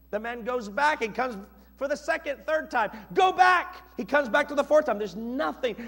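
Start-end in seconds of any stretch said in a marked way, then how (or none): 3.1-3.8 high, loud order; raised, commanding call; prophet's command. Acted. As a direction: send the servant off with a shout. Elijah ordering servant back.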